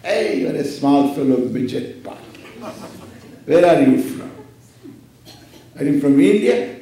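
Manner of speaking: loud, swaggering bully of a pot; boasting pot. Acted. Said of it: "And now this is boasting".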